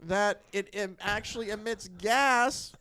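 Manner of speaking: put-on light old-time radio announcer; lightly voiced newsreel announcer; 1940s announcer voice. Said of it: "nineteen forties voice you're using".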